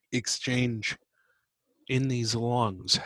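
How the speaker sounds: words stretched through a yawn. Real, not acted. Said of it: "I yawned".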